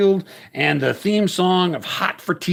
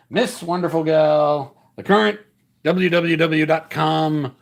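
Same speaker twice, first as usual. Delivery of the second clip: ring announcer. Acted. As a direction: announce the fighters to the crowd. Ring announcer introduces the title match.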